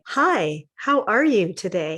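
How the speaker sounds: regular greeting through a pinched nose; nose plugged. Shown as a demonstration. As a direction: say it normally while holding your nose.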